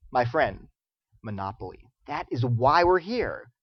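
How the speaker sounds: hushed, low and slow revelation; acted solemn conviction; solemn mock reassurance. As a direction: deliver it like a grave secret, low and soft. Acts deluded prisoner explaining calmly.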